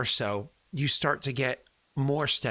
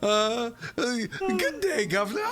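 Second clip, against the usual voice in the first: high, slow, stiff formal address; hammed-up posh greeting to father; mock formal greeting; 7 semitones higher, 3 dB louder, slower than usual. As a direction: play the overly polite son. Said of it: "Uh, fantastic. That was perfect".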